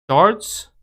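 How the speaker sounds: "Shorts?" repeated with a sharp high questioning rise; puzzled echo. Real, not acted. Streamer repeating chat's correction, puzzled high rise. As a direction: echo "Shorts?" back in disbelief.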